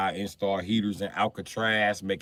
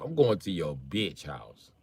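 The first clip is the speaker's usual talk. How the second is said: deadpan comeback; 3 semitones lower, slower than usual. Retold or imitated. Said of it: "I say it in front of their wife".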